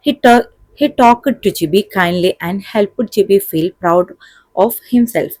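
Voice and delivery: slow, deliberate English reading; measured classroom dictation pace; textbook read-aloud. A narrator's reading. Reads model answer aloud.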